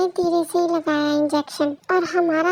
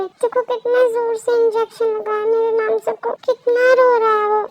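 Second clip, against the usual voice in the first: higher-pitched angry protest; acted upset, voice pitched up; angry parent; 4 semitones higher, 3 dB louder than usual. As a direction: complain indignantly about your crying baby. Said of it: "मुझे बहुत ज्यादा गुस्सा आ रहा है".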